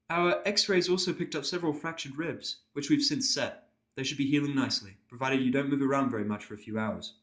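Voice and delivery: a careful, apologetic pony nurse. Acted.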